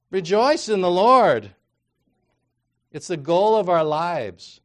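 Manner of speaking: loud, high, drawn-out cry to rejoice; slow, ringing preacher's shout; emphatic exhortation. Acted. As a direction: proclaim it with full force. Corrects the blah reading with exhortation.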